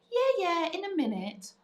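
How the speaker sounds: lightly voiced busy mum putting a child off; put-off mum. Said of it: "you know when mums go".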